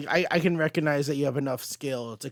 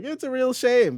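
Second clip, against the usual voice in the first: voicing the Goblin; 11 semitones higher, 4 dB louder than usual. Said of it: "And Green Goblin's like".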